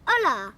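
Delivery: Hola said the Spanish way, silent h, OH-lah; Spanish hello. Shown as a demonstration. Teaching the Hoobs hello in Spanish, Hola with a silent h. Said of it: "That's how they say hello in Spain".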